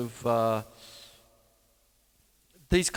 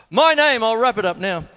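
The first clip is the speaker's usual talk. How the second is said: cracking voice, pushed up high; voice breaking; 8 semitones higher, 9 dB louder than usual. Real, not acted. Performer signing off to the crowd, voice breaking. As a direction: voice cracking high and loud as he signs off. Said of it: "my voice is breaking".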